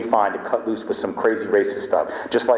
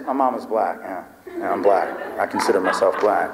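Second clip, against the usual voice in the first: sincere deadpan; 2 semitones lower than usual. Pretend. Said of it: "so I wouldn't give it away with my face".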